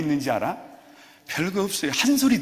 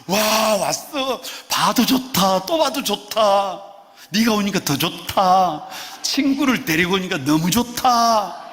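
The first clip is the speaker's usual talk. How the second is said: gushing teacher; 5 semitones higher, 4 dB louder, slower than usual. Pretend. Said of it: "교사가 푼수가 돼가지고".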